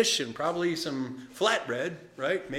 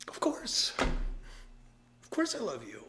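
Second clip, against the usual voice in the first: hurt reply; 5 semitones higher, 5 dB quieter, much slower than usual. Retold or imitated. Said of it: "his feelings are hurt".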